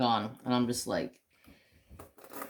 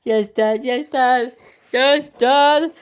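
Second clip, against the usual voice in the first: climbing higher and louder with each repeat; mock doggy excitement, rising; excited dog voice; 8 semitones higher, 5 dB louder, slower than usual. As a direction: voice an eager dog, building in excitement. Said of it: "He's so excited. He's like".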